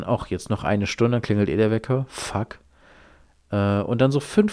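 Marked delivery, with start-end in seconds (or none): 2.1-2.6 a breathy whispered fuck, no voice at all; whispered curse. Retold or imitated. Sleepless at dawn, cursing the alarm in a whisper. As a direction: curse it under your breath.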